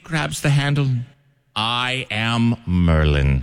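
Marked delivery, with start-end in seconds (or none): 1.6-3.4 slow, drawn-out grand wizard proclamation; hammed-up wizard line, stretched way out; Merlin the wizard. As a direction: announce it like Merlin pulling the sword, very slowly. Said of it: "And like the sword in the stone".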